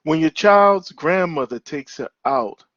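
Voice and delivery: measured recital, line by line; poem reading. Acted. Poet reading to parents about a mother-in-law, measured recital. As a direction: read it as verse, pausing between phrases. Reads second poem to audience.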